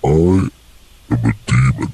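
filtered demon voice. Pretend. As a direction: growl it like a demon. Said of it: "I just hear the demon voice".

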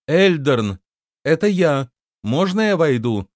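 high, loud call. A narrator's reading. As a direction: call out so it carries through a door. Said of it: "постучала и громко сказала". (громко, высоким голосом)

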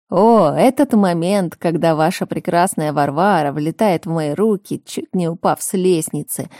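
eager, lively storytelling; enthusiastic. Acted. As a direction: talk it up with gusto. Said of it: "воодушевлённо начинает брат".

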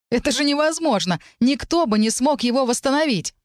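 put-on can't believe what the girls did; amazed. Elisar marvelling at the girls, high excited disbelief.

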